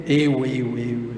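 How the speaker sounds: repeated eu trailing off into quiet, mocking; mock self-centred ego. Speaker at the spiritist rostrum mocks his own ego, fading to quiet. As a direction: fade out each eu like a selfish whine.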